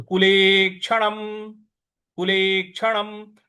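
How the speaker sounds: कुले क्षणम with the final म clipped short; halant on म. Shown as a demonstration. Teacher demonstrating the halant on the final म of कुले क्षणम. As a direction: say कुले क्षणम slowly, the म not fully voiced. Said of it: "इसको हमको पूरा नहीं बोलना है".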